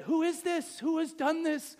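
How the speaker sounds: upset king. Acted. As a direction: demand it like an affronted king. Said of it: "'Cause now he's so upset".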